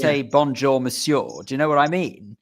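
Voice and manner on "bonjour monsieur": French greeting in an unaltered English accent. Shown as a demonstration. Showing what one wouldn't say, French in English accent. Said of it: "You'd try and say it with a French accent".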